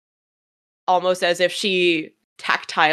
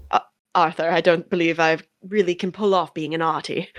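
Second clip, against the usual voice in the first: understated British gentleman; politely hesitant British accent. Acted. Arthur answers when asked his name, lightly British accent. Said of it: "Oh, British".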